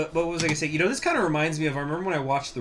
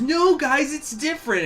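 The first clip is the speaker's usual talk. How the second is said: imitating a musician; 13 semitones higher, 4 dB louder than usual. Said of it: "he goes".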